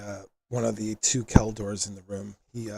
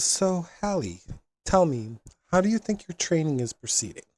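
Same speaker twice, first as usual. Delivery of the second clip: pleasant, gentle tone; 6 semitones higher than usual. Acted. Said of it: "it's actually pleasant to listen to".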